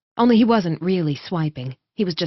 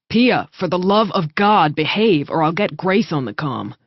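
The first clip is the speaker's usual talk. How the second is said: louder warning to a sister; threatening; 4 dB louder than usual. Acted. Brother threatening his fidgeting sister, louder warning. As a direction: lay down the threat hard. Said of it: "Revel threatened".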